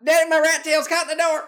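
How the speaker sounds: put-on high, loud childish whine; whiny kid voice. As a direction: cry for daddy like a little kid. Sketch, child voice in distress.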